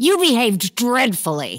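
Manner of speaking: abrupt angry outburst with swooping pitch. Stage character turning on the man being judged; suddenly angry. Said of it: "(Suddenly angry)".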